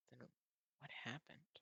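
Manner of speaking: puzzled whisper to himself. Real, not acted. Boy puzzling over why she's mad, whispered. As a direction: breathe the question out, unsure.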